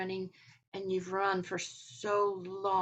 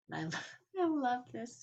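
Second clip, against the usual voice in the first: laughing; 5 semitones higher than usual. Real, not acted. Speaker delighted by quoted joke.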